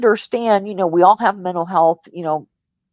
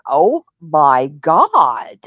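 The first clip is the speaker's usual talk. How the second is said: slow stunned gasp; 5 semitones lower, much slower than usual. Retold or imitated. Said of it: "I was like".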